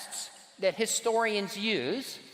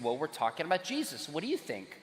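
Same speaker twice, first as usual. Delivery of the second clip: quieter, deflated retelling of the pitch; embarrassed; 5 semitones lower, 6 dB quieter than usual. Retold or imitated. Students embarrassed, repeating their opener softly and sheepishly. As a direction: say it sheepishly, a bit beaten down. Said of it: "they're a little bit embarrassed".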